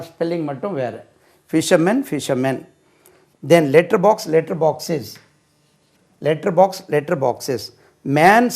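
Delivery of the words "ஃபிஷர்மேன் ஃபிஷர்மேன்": ஃபிஷர்மேன் repeated with the same "men" ending; same pronunciation. Shown as a demonstration. Teacher demonstrating singular and plural, ஃபிஷர்மேன் pronounced alike with a "men" ending. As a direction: end both takes of ஃபிஷர்மேன் in an identical "men". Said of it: "singular ப்ளூரலுக்கு உச்சரிப்பு ஒண்ணு தான்".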